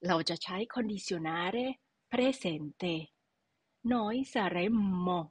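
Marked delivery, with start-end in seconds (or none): 3.9-5.2 saremmo said slowly with a held double M; clear double M. Shown as a demonstration. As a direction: lean on the mm in saremmo. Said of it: "M สองตัวนะ".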